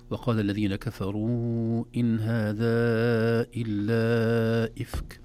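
slow tajweed recitation with long vowels; Quran recitation. Shown as a demonstration. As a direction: recite slowly, drawing out each madd. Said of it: "نلاحظ أن هنا تتابع المدود المنفصلة". (تلاوة مجودة بطيئة)

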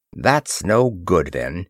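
slow, measured emphasis, dropping away at the end; emphatic. A narrator's reading. Ross dismissing Artana's flood plan, emphatically. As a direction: lay it down word by word, emphatically. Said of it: "Ross said emphatically".

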